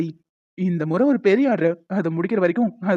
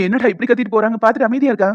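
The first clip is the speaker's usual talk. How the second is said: louder, puzzled exclamation; loud bafflement; 5 dB louder than usual. Acted. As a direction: exclaim in disbelief at her outburst. Colleague baffled by her outburst.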